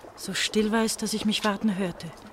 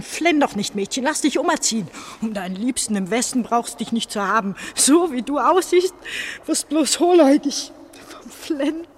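mocking taunt; 5 semitones higher, 5 dB louder than usual. Recalled taunts before factory shift.

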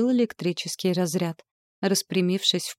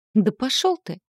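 higher, sharp angry brush-off; snarling retort; 6 semitones higher, 4 dB louder than usual. A narrator's reading. Heroine snapping at the teasing demon, snarling. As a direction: throw it back at him with a snarl. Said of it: "ощерилась я".

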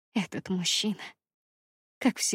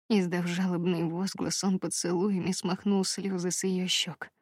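usual speaking voice

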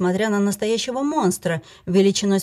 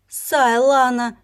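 a slow, louder, higher cry close to tears; frantic tearful call; near tears; 5 semitones higher, 4 dB louder, much slower than usual. Acted. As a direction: call her name on the verge of crying. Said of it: "чуть ли не плача кинулась она".

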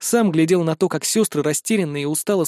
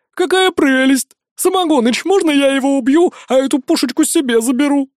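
delighted squeal; 9 semitones higher, 5 dB louder than usual. A narrator's reading. Bloodthirsty girl begging the boss to let her kill. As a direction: squeal like a girl shown a doll. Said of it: "восторженный визг Арчанки Куни".

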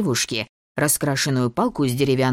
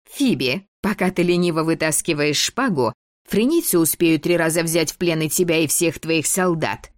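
властная девочка; 4 semitones higher than usual. Acted. Дебора выговаривает Фиби.

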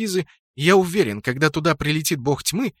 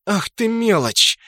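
higher, slow angry hiss of contempt; 7 semitones higher, 3 dB louder, slower than usual. Acted. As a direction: spit out the insult slowly. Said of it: "прошипела Сцилла". (прошипеть со злостью)

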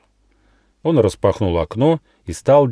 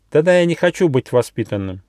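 much higher squeaky mouse voice, drowsy; sleepy little mouse; 7 semitones higher, 3 dB louder than usual. Acted. Mouse Gosha waking up asks the gnome, high mouse voice. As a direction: peek out with one eye and ask sleepily.

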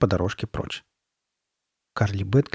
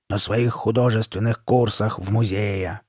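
slow, hoarse monster voice; raspy mask voice. Acted. Masked girl explaining to Sabrina, slow rasp. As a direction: keep rasping, unhurried and stretched. Carly Beth continues in mask voice.

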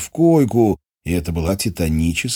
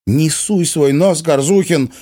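bitter lash; 9 semitones higher, 4 dB louder, slower than usual. A narrator's reading. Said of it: "ожесточённо хлестнула Ирина".

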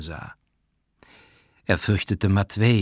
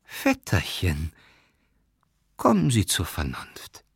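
placating plea; 3 semitones lower than usual. A narrator's reading. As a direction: calmly talk the cousin down. Matvei placates the raging cousin. (langsam und beschwichtigend)

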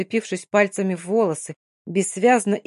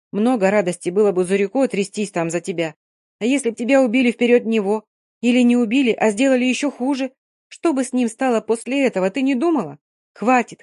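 firm scolding friend, rising louder; 4 dB louder than usual. Acted. Mary reasons firmly with Dina.

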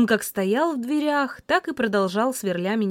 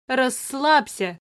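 smiling; 3 semitones higher, much slower than usual. Acted. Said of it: "не скрывая улыбки".

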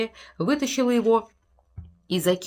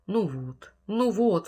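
sobbing; much slower than usual. Acted. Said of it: "всхлипывая".

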